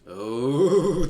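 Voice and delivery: sudden loud gasp-like oh; a real startled oh. Real, not acted. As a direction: jump at the scary line. Startled by scary narration.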